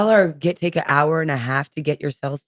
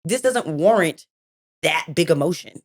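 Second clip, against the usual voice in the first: calming parent. Retold or imitated. Mom calming upset son.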